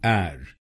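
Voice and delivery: एर said with an open e like air; right syllable. Shown as a demonstration. Teacher repeats the right syllable, एर like air. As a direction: repeat एर, never अर. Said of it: "आप इसको बोलिए एर".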